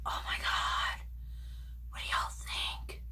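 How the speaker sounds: breathless whisper; hushed and moved; awed whisper. Real, not acted. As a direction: whisper it, overwhelmed. Awestruck at makeup.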